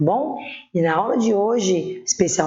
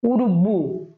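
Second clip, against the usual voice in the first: Urubu with weight on the final BU; stress on BU; much slower than usual. Shown as a demonstration. Teacher giving an example of tonic syllables, stressing BU in Urubu. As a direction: say Urubu leaning on its last syllable, BU. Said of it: "o bu é a sílaba tônica".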